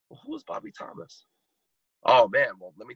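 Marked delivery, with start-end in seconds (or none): 0.1-1.2 curious passerby. Retold or imitated. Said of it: "someone's gonna say".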